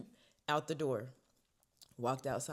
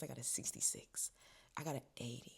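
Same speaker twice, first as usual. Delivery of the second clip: hushed; 6 dB quieter than usual. Real, not acted. Revealing test scores.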